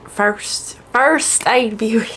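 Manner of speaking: slow country twang on "First Aid Beauty"; drawn-out country "First Aid Beauty"; country accent. Real, not acted. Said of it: "I'm very country today".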